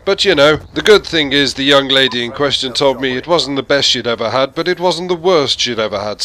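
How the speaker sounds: a hint of a chirpy gentleman boasting; posh English gent. Passer-by answering a greeting, chirpy and lightly posh. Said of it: "people would say".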